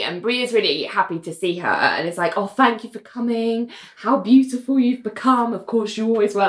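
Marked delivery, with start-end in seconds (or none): 2.4-6.5 retold sweet compliment; lightly acted fond welcome; gushingly nice. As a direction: imitate someone being really nice to a guest. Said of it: "just being really nice to her".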